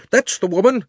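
high, loud outraged cry stressing That's; angry shout. Acted. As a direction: repeat the accusation, punching That's. Angry shopkeeper accuses the witch.

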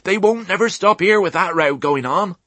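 high, urgent country ewe voice; bawling. A narrator's reading. Old sheep running beside piglet, high bawl. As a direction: call it out high over the racket. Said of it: "bawled Ma as she ran".

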